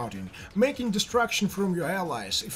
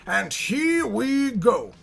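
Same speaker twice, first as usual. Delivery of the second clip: dramatic announcer; 3 semitones higher, much slower than usual. Acted. Announcing the action.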